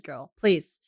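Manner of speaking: ordinary talk, nothing marked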